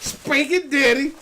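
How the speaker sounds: high-pitched playful squeal; silly high voice. Pretend. Man clowns while friend says down boy, silly high voice. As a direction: jump into a high, teasing voice.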